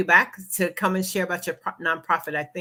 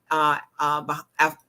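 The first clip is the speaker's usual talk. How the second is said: talking funny after dental work; words slurred by a numb mouth; 3 semitones lower than usual. Real, not acted. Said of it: "I'm talking a little funny".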